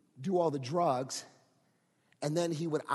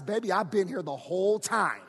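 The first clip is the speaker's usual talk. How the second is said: a hint of tender comfort; tender God voice; 4 dB louder than usual. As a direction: reassure like a loving parent. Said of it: "And God says".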